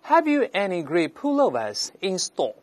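slow British model reading; British accent. Shown as a demonstration. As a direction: read it in careful British English, dropping the r's. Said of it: "是一个英国人在讲的话".

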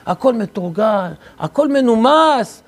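slow, drawn-out orderly phrases; measured and proper. Acted. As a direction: savour each word of church decorum. Priest boasting of orderly church. (לאט ובנימוס מופגן)

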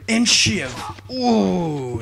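loud, high burst on the strike; worked-up gamer shout; excited outburst. Real, not acted. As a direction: punch it out, then a relieved loud ooh. Tense stealth kill in game.

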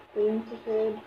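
muffled behind filter mask; speaking through respirator. Real, not acted. Seen 0: Pink-filter respirator covers mouth and nose throughout; references show bare face.

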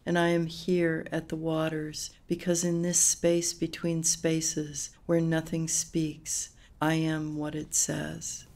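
measured, understated poetry reading; poem reading. Acted. Poet reading closing lines to an interviewer, measured poem reading. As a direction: read it evenly, letting each phrase land.

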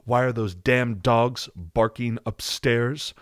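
a lightly done, slow, clipped Adam Driver; a hint of Adam Driver, slow and terse; succinct Adam Driver. Showing viewers how Adam Driver talks, lightly imitated and slow. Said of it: "he has sort of a voice that's more, like, right in here. He's very succinct when he talks".

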